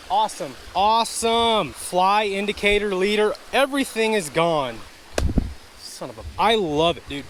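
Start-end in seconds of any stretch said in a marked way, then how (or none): 0.7-4.8 mock cheer over lost gear; sarcastic. Real, not acted. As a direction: spit out Awesome in fed-up mock cheer.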